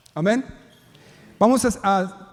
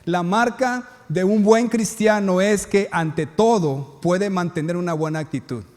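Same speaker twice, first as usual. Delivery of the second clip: slow dictation so notes can be taken. Shown as a demonstration. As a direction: spell it out slowly for note-takers. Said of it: "Así que apunten tus notas esto".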